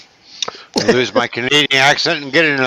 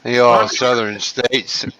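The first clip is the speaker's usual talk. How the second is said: fake Southern accent; slower than usual. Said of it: "That ain't no southern".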